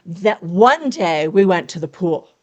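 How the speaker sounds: slow, with one stressed and lingered on; slowed demo stressing one. Shown as a demonstration. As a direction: let one hang as the moment begins. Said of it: "Do you feel it?".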